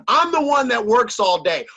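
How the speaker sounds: a hint of a gruff caveman husband scolding; lightly mocking his old macho self. Husband lecturing his wife about housework, mildly gruff. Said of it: "I used to say things like, I was a caveman".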